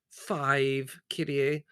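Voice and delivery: sorrowful. Acted. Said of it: "shaking his head sorrowfully".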